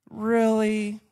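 a loud disbelieving really; loud incredulous. Real, not acted. Preacher doubting the fake happy answer. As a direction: sound like you don't buy it.

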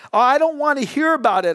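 quick, mildly angry brush-off. A narrator's reading. Infuriated man shuts down his aunt's talk, angrily. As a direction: snap it with a touch of anger. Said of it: "I said angrily".

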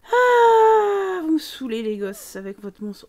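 « Ah » aigu et fort, agacé; parent agacé. Pretend. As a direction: parent exaspéré par les gosses. Voices annoyed parent. (agacement de parent, voix haute)

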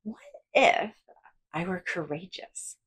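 big, bouncy cartoon-style question; exaggerated cartoon voice asking what if; big cartoonish voice. Shown as a demonstration. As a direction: ham it up like a cartoon. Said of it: "in a really big, almost cartoonish voice".

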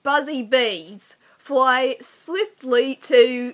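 very slow, drawn-out put-on Australian accent; mild Australian accent. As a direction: stretch it out like an Aussie.

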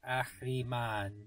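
AHRIMAN with a phlegmy ch after Ah; throaty CH in Ahriman. Shown as a demonstration. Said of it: "There's no ch in this one".

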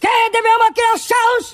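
declaiming like a protest leader; rally oratory. Acted. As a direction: orate with dramatic grief.

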